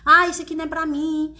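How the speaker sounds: hammed-up tearful lament; retold tearful complaint. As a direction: imitate yourself crying to your husband, without real tears. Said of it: "eu ia chorar".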